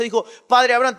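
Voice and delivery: loud, quick reading of the cry; read-through plea. Acted. Preacher reading the rich man's cry to Abraham in passing. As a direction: toss it off inside the fast reading.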